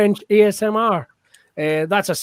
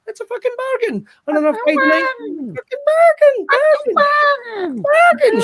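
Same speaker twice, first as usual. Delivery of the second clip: hyped sales pitch. Acted. To the viewers selling tickets, a rising excited shout. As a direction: sell it like a market trader gone wild. Hyping cheap gig tickets.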